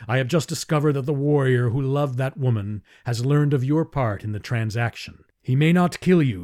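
a hint of a grim Thark chieftain; menacing warning. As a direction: warn her coldly as a just man. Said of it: "said Tars Tarkas".

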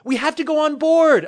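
loud high call while running; called back. Acted. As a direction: shout it back over the shoulder. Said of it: "I called back as I ran".

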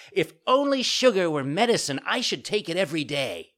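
put-on high, loud child voice; puppet boy, delighted. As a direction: exclaim like a sugar-happy little puppet. Puppet figure in story.

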